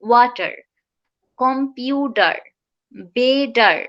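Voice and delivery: ওয়াটার, কম্পিউটার, বেডার with middle T as D; flap T. Shown as a demonstration. Teacher giving examples of middle T, flap T. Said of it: "টি is the D হবে".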